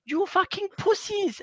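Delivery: imitating raging coach. Head coach tearing into his players at halftime, furious high-pitched screaming. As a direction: scream abuse at the team like an unhinged manager. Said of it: "And then it's like".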